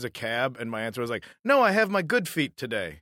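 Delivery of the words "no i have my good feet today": higher, louder simplified English for a foreigner; simpleton English. Retold or imitated. Traveler answering someone directing her to a cab, simpleton English. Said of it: "I'll use simpleton English for you".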